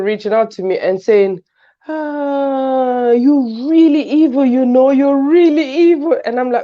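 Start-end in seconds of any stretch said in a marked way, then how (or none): 1.9-6.2 mock accusation. Viewers accusing her of villain role.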